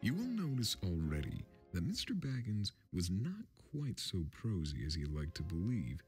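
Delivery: usual speaking voice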